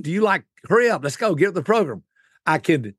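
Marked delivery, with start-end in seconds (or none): 0.7-2.0 higher, brisk hurry-up voice; pushy extrovert. Retold or imitated. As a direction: rush them like an impatient go-getter. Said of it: "are you more outgoing".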